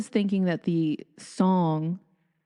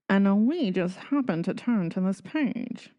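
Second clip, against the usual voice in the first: put-on lightly old-fashioned announcer voice; a hint of an old newsreel narrator; old-timey voice. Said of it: "That's my old-timey voice".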